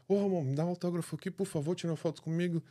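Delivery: a hint of a little boy begging for a photo; imitating a kid. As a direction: lightly play the excited young fan asking politely. Boy asking for autograph.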